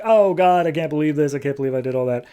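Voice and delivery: mildly panicked retelling of dismay; lightly acted "oh God" fluster; mock freak-out. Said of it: "she's just kind of freaking out".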